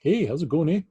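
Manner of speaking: playful Canadian greeting; mock Canadian accent. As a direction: lean into the Canadian "eh". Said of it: "That's what a Canadian says".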